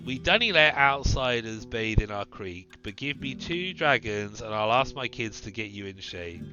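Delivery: a hint of a hearty Scottish host; Scottish accent. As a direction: offer the bath like a Scot. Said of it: "fucking Scottish".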